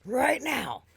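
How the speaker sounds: slow, loud, over-enunciated pointing out; exasperated explaining. Retold or imitated. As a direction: spell it out slowly as if to a child. Exasperated with the drive-thru worker.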